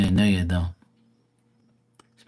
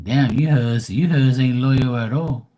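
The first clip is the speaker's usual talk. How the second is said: mock scolding; 3 semitones higher than usual. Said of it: "I'm saying".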